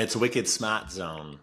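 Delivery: put-on Boston accent for the name; playful touch of Boston accent. Shown as a demonstration. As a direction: say it like a Boston local. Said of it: "that Boston accent".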